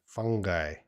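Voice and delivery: "Fungi" as FUN-guy, hard g; pronunciation with hard g. Shown as a demonstration. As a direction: say "Fungi" with a hard g, ending like "eye". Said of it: "pronunciations of that word".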